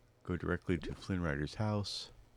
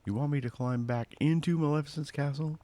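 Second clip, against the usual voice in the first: alarmed disbelief; 10 semitones higher, 6 dB louder than usual. Acted. Flynn voiced, alarmed at plan.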